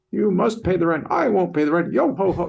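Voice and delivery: over-the-top silent film villain, high; mustache twirling villain. Retold or imitated. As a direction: ham it up like old vaudeville melodrama. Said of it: "like Charlie Chaplin, you know, like".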